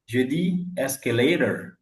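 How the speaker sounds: escalator said slowly, American ending. Shown as a demonstration. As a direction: repeat escalator the way she says it. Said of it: "Si elle dit escalator". (escalator à l'américaine, lentement)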